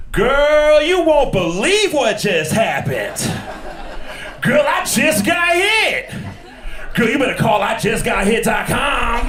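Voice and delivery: put-on high, slow girlish chatter; little girl ad voice. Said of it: "It goes like this".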